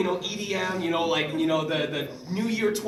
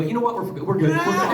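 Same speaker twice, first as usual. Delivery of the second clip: laughing backpedal; 3 semitones higher, 4 dB louder, faster than usual. Retold or imitated. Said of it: "they go".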